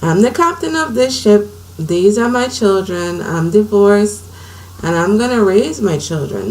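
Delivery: firm, determined declaration; take charge attitude. Retold or imitated. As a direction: plant your feet and claim your ship. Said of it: "that's the attitude I took".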